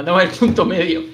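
loud, forceful declaration; loud emphatic. Real, not acted. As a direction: hammer the point home loudly. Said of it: "He asustado a Mario".

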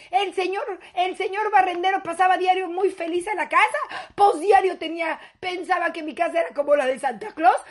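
daughter's exaggerated grievance; mock reproach. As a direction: scold your mother for the past. Daughter angrily confronts her mother.

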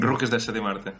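Rookies echoed with a rolled first R; long rolled R. Shown as a demonstration. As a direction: trill the R at the start of "Rookies". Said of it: "Simplemente por la R".

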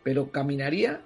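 reading aloud. Acted.

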